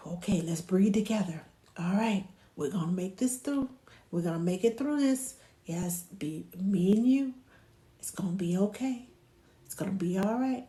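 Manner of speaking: mild, steady reassurance; calm yourself and the baby; easy, composed comforting; keeping cool. Shown as a demonstration. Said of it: "keep your cool".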